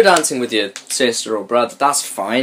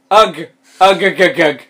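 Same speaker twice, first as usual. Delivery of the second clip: string of short mock grunts; acted groggy grunts; 5 semitones higher, 3 dB louder than usual. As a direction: grunt it out like a hammed-up waking groan. Story's noise read aloud, acted out.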